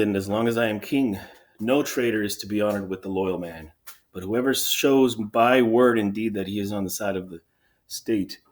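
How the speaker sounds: formal, declamatory ruler's speech; proclaiming king. Acted. King announces his burial decree to the elders, proclaiming. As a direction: deliver a firm public decree, key words punched.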